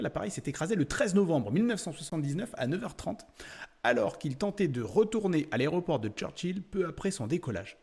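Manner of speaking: steady, continuous read-out of a factual report; reading aloud. Real, not acted. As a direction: read out the crash report like an encyclopedia entry. Reads translated crash description aloud. (lecture à voix haute d'un texte documentaire)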